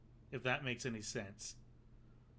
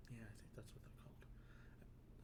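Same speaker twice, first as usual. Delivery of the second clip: an unvoiced whisper, slow and far softer; whispered aside; 4 semitones lower, 17 dB quieter than usual. Real, not acted. Quiet aside to viewers.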